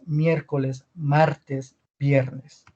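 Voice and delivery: "miércoles", "martes", "viernes" with a firm Spanish R; strong R. Shown as a demonstration. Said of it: "se va a hacer el acento en la R".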